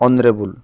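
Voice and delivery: ଅନରେବୁଲ starting on "o", pitched low; vowel-first honourable. Shown as a demonstration. Teacher shows students how honourable is pronounced, ଅନରେବୁଲ beginning on "o". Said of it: "ଉଚ୍ଚାରଣ କ'ଣ ପାଇଲେ ଆମେ".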